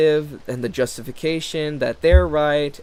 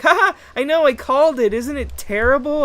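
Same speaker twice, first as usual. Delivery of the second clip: high, louder put-on voice; high gloating mock tone; smug mock voice; 13 semitones higher, 7 dB louder than usual. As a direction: play a smug know-it-all.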